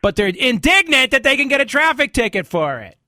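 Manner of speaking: loud, high-pitched incredulity; mock indignation. Real, not acted. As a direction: raise your voice in amused disbelief. Host ridicules people's outrage over tickets.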